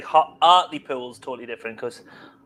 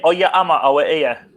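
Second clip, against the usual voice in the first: put-on Sunderland townie accent; 3 semitones higher, 4 dB louder than usual. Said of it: "would you say".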